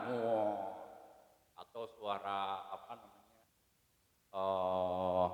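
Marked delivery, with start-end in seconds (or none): 0.1-0.7 low, soft mock tiger roar; a half-hearted, quiet tiger growl; imitated tiger roar. Preacher contrasts goat with tiger, soft mock roar. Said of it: "Enggak kayak suara macan". 4.4-5.2 low, very soft held wolf howl; a hushed, long mock howl; imitated wolf howl. Preacher compares animal voices, soft low wolf howl. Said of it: "suara itu serigala".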